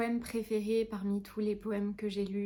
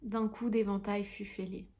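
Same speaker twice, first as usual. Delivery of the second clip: measured, lightly lyrical poem reading; gentle recital with pauses between lines; poetry recitation. Acted. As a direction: recite the verse line by line.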